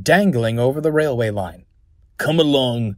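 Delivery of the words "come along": cross, impatient engine growling orders; grumpy, lightly snarled; mild snarl. Acted. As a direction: snarl it with understated temper. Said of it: "snarled Aled".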